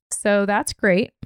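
slow, drawn-out sarcasm; sarcastic. Real, not acted. Podcaster on payments that won't stop, sarcastic. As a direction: say it slowly with sarcasm. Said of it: "I say that with sarcasm".

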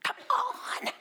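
climbing high, pleading exasperation; rising pitch ending in a breathless come on; rereading Jesus's rebuke, pitch climbing; exasperated. Retold or imitated. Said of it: "Look back at the passage".

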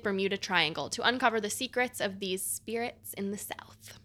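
whispered Southern ghost; breathy spooky Southern whisper. Acted. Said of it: "my best Southern accent ghost sound".

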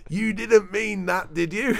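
laughing quote. Retold or imitated. Voicing the newsroom message that flagged his typo, laughing. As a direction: read the rebuke through laughter.

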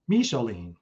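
"Micheline" said carefully as mee-sho-leen; "Micheline" as a tentative, falling mee-sho-leen; careful name pronunciation. Real, not acted. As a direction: sound out "Micheline" with a clear "mee" first. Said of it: "I hope I got that right".

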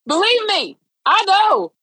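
high, laughing exclamation; real laughter spilling into loud, high words; laughing agreement. Real, not acted. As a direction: burst out in amused, emphatic agreement. Exclaims while laughing about judgmental Christians.

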